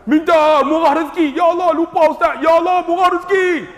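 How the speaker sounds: high, excited praying voice; high mock pilgrim voice; hammed-up old man. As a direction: mimic the old man's eager prayer. Old man's clumsy prayer retold.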